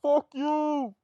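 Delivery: high yelled insult; shouted insult. Acted. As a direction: yell it back, high and loud. Character yelling back.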